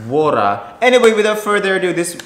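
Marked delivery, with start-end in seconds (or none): 0.1-0.6 punchy Aussie "Water" with no final r; Australian accent. Shown as a demonstration. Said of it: "and Australian is water".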